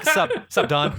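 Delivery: loud, high, cocky; casual bro greeting. Pretend. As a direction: swagger up to him. Mock greeting to celebrity.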